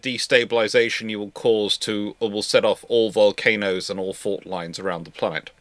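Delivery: ordinary talk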